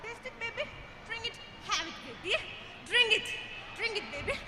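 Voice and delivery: coaxing father. Acted. Father coaxes child to drink.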